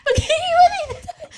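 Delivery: high teary, laughing voice; tearful laugh. Acted. Friend realizing they must part, teary high voice. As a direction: say it laughing through tears.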